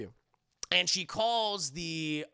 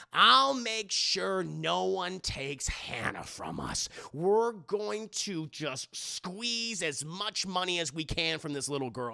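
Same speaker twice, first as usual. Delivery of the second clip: scheming villain; slower than usual. Retold or imitated. Foster mom scheming.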